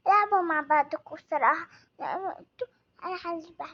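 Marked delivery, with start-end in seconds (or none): 2.0-3.6 crying. Acted. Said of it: "اختي بتبكي ليه؟".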